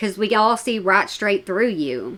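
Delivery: plain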